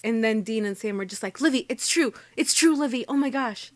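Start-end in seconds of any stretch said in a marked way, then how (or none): 1.4-3.7 put-on pleading like a little kid, a touch high; whiny toddlers. Brothers begging Olivia to believe the cult story, childish whine. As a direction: beg her to believe you like a small child. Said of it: "Like tiny toddlers".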